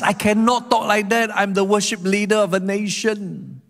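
high-pitched, torn protest; frustrated. Acted. Worship leader of a nation torn by doubt, frustrated protest. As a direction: voice the psalmist caught in a dilemma. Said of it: "the frustration".

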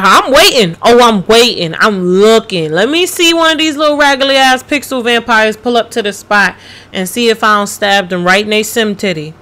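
fired-up, daring taunt; taunting challenge. Real, not acted. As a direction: call the vampires out. Taunting vampires to show up.

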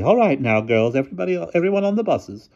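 high, loud ladylike command; headmistress. A narrator's reading. Headmistress sends girls onto the buses, high voice. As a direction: herd the girls along in a high voice.

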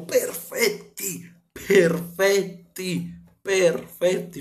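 drawn-out high praise; enfatico lento. Real, not acted. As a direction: savor each word slowly. Elogio enfatico ripetuto. (elogio lento e acuto)

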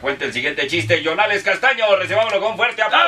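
lightly voiced TV show host, building up; Alfonso Lizarazo style. Host introducing the comedian, mock TV presenter. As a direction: announce the guest like an old TV presenter. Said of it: "como lo presenta Alfonso Lizarazo".

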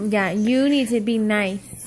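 low stern warning; sharp playground warning. Real, not acted. Parent warns misbehaving child.

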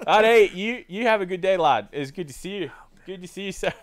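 high, loud Scottish farewell; chirpy Scottish salesman accent. Retold or imitated. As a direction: cover up with hearty Scottish goodbyes. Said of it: "I was doing a Scottish accent".

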